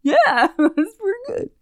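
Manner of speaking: high, cheerful, undiscerning smith; Brithiel voice. Retold or imitated. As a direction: gush happily over anything. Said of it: "And you can be like".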